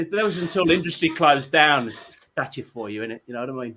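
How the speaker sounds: imitated chatty Brummie barman; Brummie accent. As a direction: grumble matily in mock Brummie. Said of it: "became Brummie while he was talking to us".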